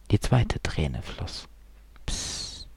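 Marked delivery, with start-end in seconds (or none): 2.0-2.7 very soft, whispered hush; barely audible hushing; whispered shush. A narrator's reading. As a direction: shush someone under your breath. Hushes Theo in the story.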